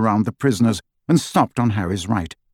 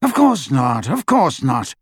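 impatient; 2 semitones higher than usual. Acted. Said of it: "said Lucius impatiently".

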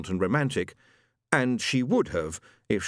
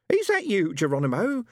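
medium asking the spirit; 11 semitones higher than usual. Acted. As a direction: summon the spirit guide theatrically. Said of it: "she asked herself".

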